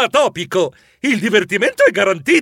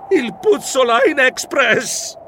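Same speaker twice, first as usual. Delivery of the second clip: alarmed emphasis; 8 semitones higher, much slower than usual. Acted. Fears missing the train.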